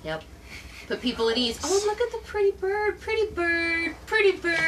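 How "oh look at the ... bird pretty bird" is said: high, squawky parrot talk. Acted. Talking to a bird.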